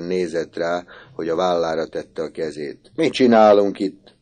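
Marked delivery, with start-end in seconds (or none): 2.9-4.1 louder, higher startled question; sharp challenge. A narrator's reading. Boy confronting Misi, louder startled demand. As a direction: demand what they're doing here.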